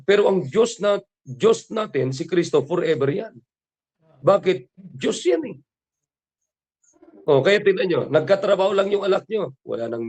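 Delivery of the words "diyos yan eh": high emphatic exclamation. Acted. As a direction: voice jumps up high, declaring.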